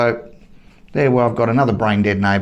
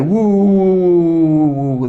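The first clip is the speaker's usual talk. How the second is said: imitated dog howl; 6 semitones higher, 4 dB louder than usual. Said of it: "The dog is crying for help".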